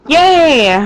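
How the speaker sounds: high, drawn-out mini cheer; celebratory high-pitched yay; excited cheer. Acted. Cheering over the fish caught.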